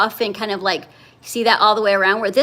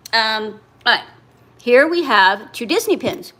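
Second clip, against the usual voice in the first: talking around a piece of ice; words said round an ice cube; ice in mouth. Real, not acted. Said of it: "I got a piece of ice in my mouth".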